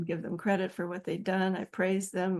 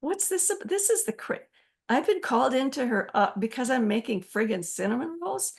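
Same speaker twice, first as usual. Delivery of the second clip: pitched way up in retold disbelief; dumbfounded disbelief; 4 semitones higher than usual. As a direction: replay your stunned outrage at the order, voice jumping high.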